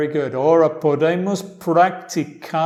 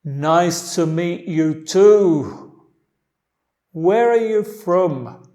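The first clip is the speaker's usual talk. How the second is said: slow model line; 6 dB louder, slower than usual. Shown as a demonstration. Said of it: "Yo lo voy a decir la parte de A".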